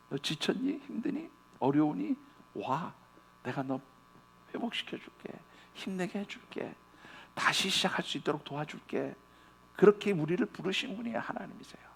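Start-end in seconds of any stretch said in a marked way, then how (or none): 0.1-9.1 softer, tender voice of God calling the tired; a soft, tender invitation to come; God's gentle call. Acted. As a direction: coax them softly like a caring father.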